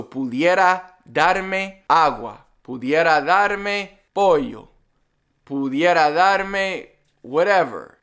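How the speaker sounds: slow, repeated model phrase; teacher drilling the phrase, slow. Shown as a demonstration. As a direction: drill it slowly for the learner. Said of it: "Dar is the easiest way".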